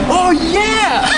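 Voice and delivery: high, loud excited burst; excited oh yeah. Retold or imitated. Host recalling reading the script, excited outburst. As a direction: blurt it out like a thrilled kid. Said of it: "because I'm like".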